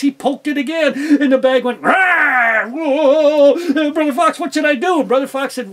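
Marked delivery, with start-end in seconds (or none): 1.8-2.7 loud roar; bulldog roar. Acted. Bulldog roaring from the bag, loud. 2.7-5.0 higher, loud panicky plea; frightened yelp. Acted. Fox scared again, asking Brother Fox for help, loud.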